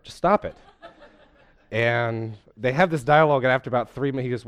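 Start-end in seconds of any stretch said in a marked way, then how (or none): 0.0-0.5 high, louder mock command; amused blunt order. Preacher playing the therapist cutting the patient off, amused. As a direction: snap it off with glee.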